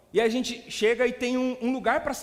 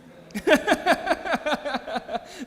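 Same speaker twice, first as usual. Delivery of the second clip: loud, high laughter; real hearty laugh; 6 semitones higher, 6 dB louder than usual. Real, not acted. Preacher amused by these church strategies, hearty laughter. Laughs at his own punchline.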